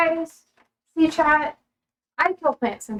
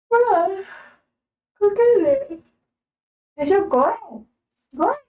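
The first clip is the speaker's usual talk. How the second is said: laughing coax; 8 semitones higher than usual. Real, not acted. Urging dog, laughing.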